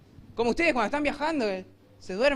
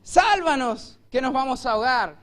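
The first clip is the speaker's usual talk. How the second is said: desperate shout; 2 semitones higher, 5 dB louder than usual. Retold or imitated. Frightened disciples yelling at sleeping Jesus. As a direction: cry out to be saved. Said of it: "le gritaron".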